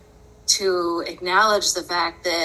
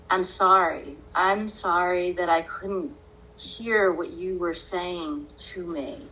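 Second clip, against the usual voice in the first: sincere apology. Retold or imitated. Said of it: "eventually I went into".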